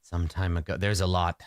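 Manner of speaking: lightly voiced sorcerer lost in low, halting reminiscence; rambling sorcerer. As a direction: drift through hazy memories, pausing often. Plays rambling old sorcerer.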